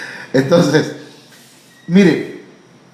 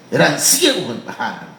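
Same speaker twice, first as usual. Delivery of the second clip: laughing; 5 semitones lower than usual. Real, not acted. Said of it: "No, eran ciegos, hermanito".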